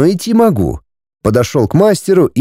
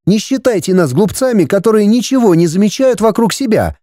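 higher, indignant female voice; indignant young woman; 8 semitones higher than usual. Acted. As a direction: scold him as the offended princess. Ulrika scolds the hero.

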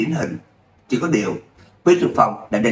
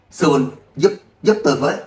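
breathless plea, rising pitch; desperate cry for help; 3 semitones higher than usual. Acted. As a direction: gasp out a call for rescue. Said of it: "cố gắng kêu lên, hơi thở trở nên gấp gáp". (kêu cứu hổn hển)

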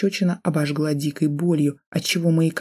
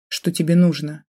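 strained. Acted. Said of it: "выдавила из себя".

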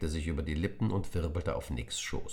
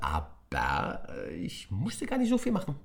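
high impish creature voice; mischievous creature confessing; little creature; 9 semitones higher than usual. Acted. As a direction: explain cheekily. Brasso's voice.

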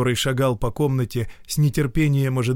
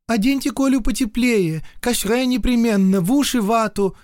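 high, louder call to the governess; 12 semitones higher, 5 dB louder than usual. Acted. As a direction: keep calling across the rooms. Кричит гувернантке через дом. (громкий высокий оклик гувернантке)

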